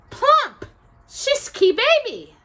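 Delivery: high, loud gloating witch; shrill gloating witch. A narrator's reading. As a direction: cackle the words at her. Witch poking child.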